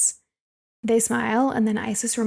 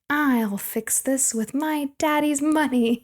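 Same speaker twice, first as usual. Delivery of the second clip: higher, drawn-out mock of a privileged girl; mocking saviour; 4 semitones higher, slower than usual. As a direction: mockingly play the girl who saves everyone, slowly. Mocks a rich girl's saviour plan.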